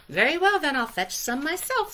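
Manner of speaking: fine, I'll do it myself; determined hen. A narrator's reading. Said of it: "said Little Red Hen".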